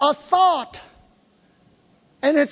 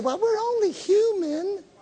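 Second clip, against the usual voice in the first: high, soft mocking voice. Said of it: "they'll say".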